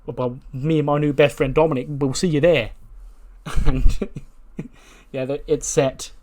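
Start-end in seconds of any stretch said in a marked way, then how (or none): 0.1-2.7 louder, higher mock taunt; sneering gloat at the rival; Waller's cocky retort. Waller taunting his new rival, mock cocky. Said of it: "And Waller goes".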